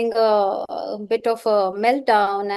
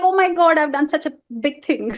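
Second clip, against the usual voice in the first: put-on proud child; 3 semitones higher, faster than usual. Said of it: "he feels like".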